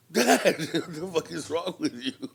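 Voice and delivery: slow, mock-outraged Dad; slow exasperated protest; exasperated disbelief. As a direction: scold him slowly in disbelief.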